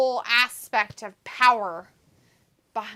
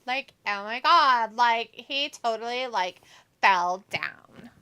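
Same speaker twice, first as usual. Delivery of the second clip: put-on Valley girl voice. Shown as a demonstration. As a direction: play a vapid Valley girl. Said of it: "not really hard to sound like a Valley girl".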